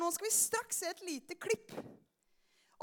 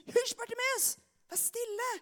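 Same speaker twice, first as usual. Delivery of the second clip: irritated shushing; 8 semitones higher than usual. Acted. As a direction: play the annoyed crowd shushing someone. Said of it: "de ble sinte eller irritert".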